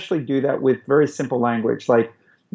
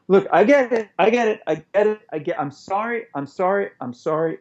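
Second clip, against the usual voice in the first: flustered apology; 4 semitones higher than usual. Shown as a demonstration. Partner apologizing to an angry partner, quick then hushed. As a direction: placate an angry partner in a rush. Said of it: "if you were really mad at me".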